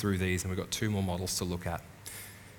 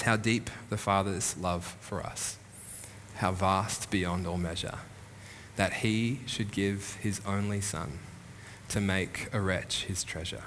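slow, softer, reverent reading of the hymn words; slow hymn recitation; 4 dB quieter than usual. Shown as a demonstration. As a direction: recite it gently, letting each line settle. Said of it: "It goes like this".

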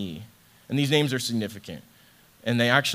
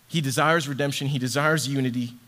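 impassioned; 4 semitones higher, 3 dB louder than usual. Real, not acted. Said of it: "I was getting emotional".

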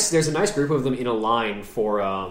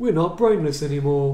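slow, louder, higher ogre mage boast; pompous booming ogre mage; 4 semitones higher, 5 dB louder than usual. Retold or imitated. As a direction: boom it out like a proud ogre mage. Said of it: "that's the ogre mage voice line from Warcraft two".

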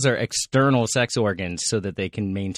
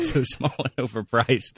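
laughing repeat. Real, not acted. Repeating friend's line laughing.

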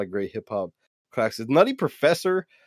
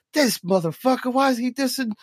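high, whiny nerd outrage; hip hop nerd voice; 7 semitones higher than usual. Retold or imitated. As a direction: play an indignant rap nerd. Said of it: "that was my hip hop nerdy voice".

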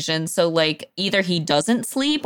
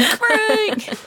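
very high, laughing name-call; playful yell. Pretend. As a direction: echo the yell, high and giggly. Joins in yelling the name, laughing.

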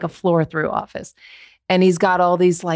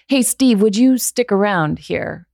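raised, higher-pitched call to a colleague; 4 semitones higher, 3 dB louder than usual. Retold or imitated. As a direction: imitate a boss hailing someone across the office. Acted boss calling to colleague.

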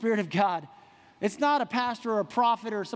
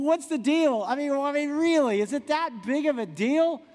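mock protest, higher pitched; incredulous questioning; 4 semitones higher than usual. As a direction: play a baffled listener pushing back on God. Voices a baffled listener questioning God.

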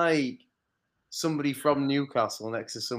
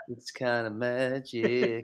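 slow, soft, drawn-out imitation; mock film quote; 7 dB quieter, much slower than usual. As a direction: stretch it out quietly, holding back laughter. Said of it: "He literally just turns around and said".

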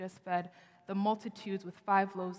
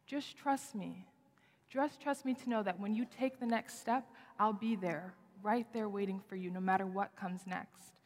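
gentle reassurance. Pretend. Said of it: "as if he's asking him".

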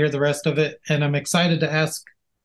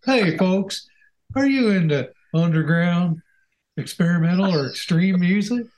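radio announcer voice; 4 semitones higher than usual. Pretend. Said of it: "if this is how we talk".

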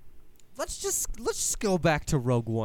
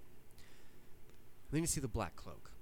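hushed reveal; 10 dB quieter, slower than usual. Acted. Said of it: "dramatic reveal hushed".

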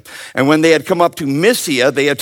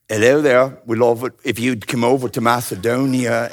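formal invitation; 4 semitones lower, 4 dB quieter than usual. Retold or imitated. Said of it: "was it more formal".

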